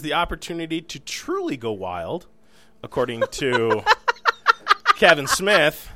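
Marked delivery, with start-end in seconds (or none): 2.8-5.9 laughter breaking through the words; barely holding back laughter; stifled giggles. Real, not acted. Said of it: "Trying not to laugh".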